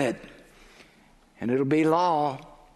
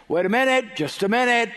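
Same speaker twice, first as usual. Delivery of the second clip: mild acted shout; 5 semitones higher, faster than usual. Law calling across campus to stop someone, mild shout. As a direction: call out as if from a distance. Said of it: "you'll hear a shout from across the campus".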